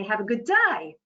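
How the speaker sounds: Australian lilt swooping up on "day"; imitating Australian upspeak. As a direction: mimic an Australian going up at sentence end. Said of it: "they go up at the end of the sentence".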